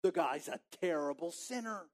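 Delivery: soft disapproving crowd mutter. Pretend. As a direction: gossip under your breath about Jesus. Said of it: "That's part of the muttering".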